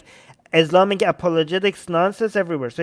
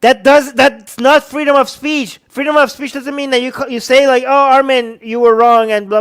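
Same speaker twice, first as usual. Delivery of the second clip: loud, high, furious yelling; furious shout; 4 semitones higher, 4 dB louder than usual. Real, not acted. Ranting at the TV commentator, shouting furiously. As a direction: blow up at the commentator. Ranting about free speech, escalating.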